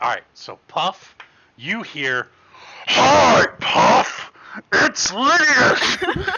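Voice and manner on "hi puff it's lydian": huge booming voice, very high, very slow, drawn out. Narrating the sending-stone message Puff hears inside their head, huge booming voice. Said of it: "Like this is huge booming voice in your head".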